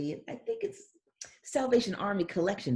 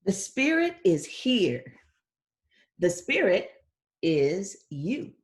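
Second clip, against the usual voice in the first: slow, louder, heartfelt; proclaiming reading; 5 dB louder, much slower than usual. Acted. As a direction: announce it like a gift. Reads story climax.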